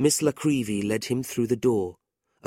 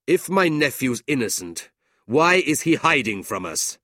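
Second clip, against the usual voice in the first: louder, cold accusing uncle; stern uncle; 5 semitones higher, 6 dB louder than usual. A narrator's reading. Ralph accuses his nephew to the family, cold and stern. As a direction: condemn him coolly.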